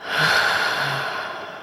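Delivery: breathy, voiceless sigh out; long exhale. Shown as a demonstration. Guide breathing along with listeners, long relaxed exhale. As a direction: release a deep breath audibly.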